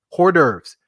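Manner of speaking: "Hors d'oeuvres" said the British way, "or-DERVS". Shown as a demonstration. Host showing how he says hors d'oeuvres, said the British way. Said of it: "That's how the Brits say it".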